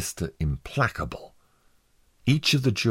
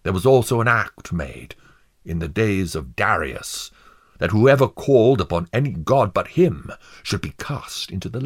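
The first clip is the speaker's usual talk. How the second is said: declaiming judge; 3 semitones higher than usual. Acted. Judge charging the jury against Faithful, sternly declaiming. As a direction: lay down the law to the jury.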